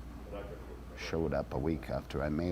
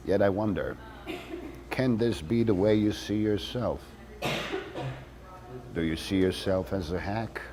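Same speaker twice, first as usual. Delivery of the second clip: earnest letter read aloud; 2 semitones higher than usual. Acted. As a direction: win the snoop over, reading aloud. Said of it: "So this time I wrote".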